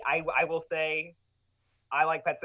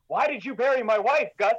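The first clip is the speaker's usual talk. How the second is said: a light hint of his rural accent, a bit higher; Clancy Brown's accent; 8 semitones higher, 5 dB louder than usual. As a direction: quote him with a mild country accent. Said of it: "He is the only one with an accent".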